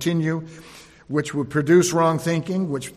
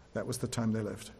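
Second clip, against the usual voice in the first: much softer, lower, on "time"; soft echo; 6 semitones lower, 12 dB quieter than usual. Acted. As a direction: let "time" sink in almost under the breath. Softer echo of same words.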